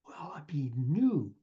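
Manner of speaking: hushed slow whisper. Acted. Hushed answer to himself.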